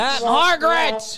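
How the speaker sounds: high drawn-out greeting in a hammed-up Spanish accent; mock Antonio Banderas Spanish accent, slowly; put-on Spanish accent. Host greeting a new guest in a hammed-up Spanish accent. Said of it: "do the rapey accent".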